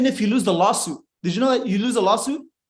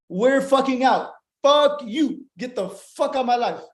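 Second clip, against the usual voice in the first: mock defiant yell; 5 semitones higher than usual. Forefathers telling England to get out, mock yell. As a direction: yell it like rebels breaking away. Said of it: "They said".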